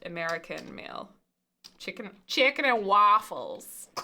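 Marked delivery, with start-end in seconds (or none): 1.8-3.9 mock southern accent. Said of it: "it went a little Boston".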